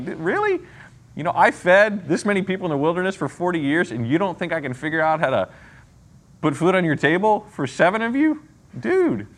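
God chuckling at the worrier; amused God. Acted. God laughing at the doubter.

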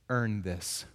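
mild dying soldier barely getting it out; dying final breath. Retold or imitated. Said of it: "in his final breath".

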